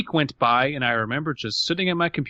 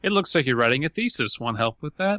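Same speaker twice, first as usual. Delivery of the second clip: Clippy voice. Pretend. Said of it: "it's Clippy five point oh".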